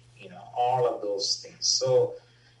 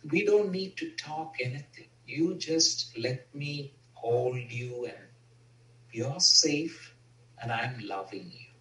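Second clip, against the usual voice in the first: tender comfort; 3 dB quieter than usual. Retold or imitated. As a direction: hold him close with your voice. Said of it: "I said".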